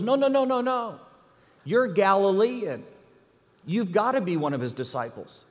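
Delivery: put-on insistent little girl. Little girl confronting Peter.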